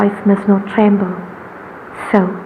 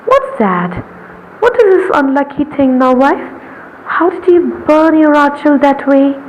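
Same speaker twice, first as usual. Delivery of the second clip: bustling call; 6 semitones higher than usual. Acted. Busy wife calling out to Nomita, then alarmed. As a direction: call out in a fluster.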